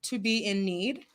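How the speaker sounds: measured, deliberate Bible reading; scripture reading. Real, not acted. Host reading scripture to her live audience, measured and deliberate. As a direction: read it slowly with weighty pauses.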